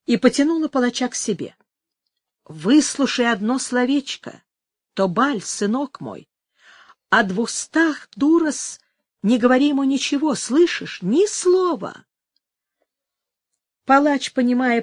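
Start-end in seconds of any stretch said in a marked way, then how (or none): 2.5-12.0 put-on old woman voice. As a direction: press him like a scheming old hag. Old woman urging secretly.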